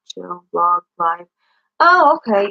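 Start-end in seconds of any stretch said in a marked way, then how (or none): 1.8-2.5 surprised. Real, not acted. Realizing how search works.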